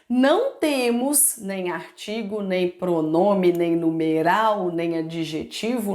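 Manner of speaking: slow listing. Shown as a demonstration. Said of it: "teacher lists what is missing".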